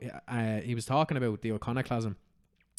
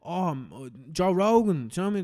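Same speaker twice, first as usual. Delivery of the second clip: higher, louder fan name-dropping his hero; proudly credit the podcast host; dopey fan voice; 6 semitones higher, 6 dB louder than usual. Retold or imitated. Mocking a fan crediting Joe Rogan, high dopey voice. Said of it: "all his followers are just like".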